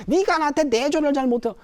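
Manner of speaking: high, cutting accusation; husband unfairly blaming his wife; angry blame. Acted. (억지로 탓하는 화난 남편)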